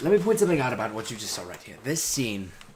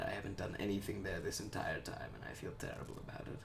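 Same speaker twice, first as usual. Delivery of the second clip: whispered aside; 13 dB quieter than usual. Real, not acted. Aside while checking chat.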